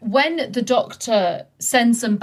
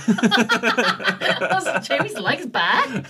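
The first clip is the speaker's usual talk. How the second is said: helpless giggles through the words; laughing; much slower than usual. Real, not acted. Co-host laughing at her own misread note, giggly. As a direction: barely get it out for laughing.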